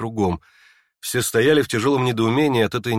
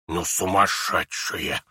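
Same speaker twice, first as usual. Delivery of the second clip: muttering; 5 semitones lower, 3 dB quieter, slower than usual. Acted. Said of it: "пробормотала".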